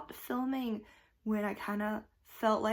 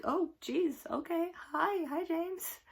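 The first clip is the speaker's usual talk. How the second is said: surprised greeting; 8 semitones higher than usual. Retold or imitated. Surprised by guest appearance.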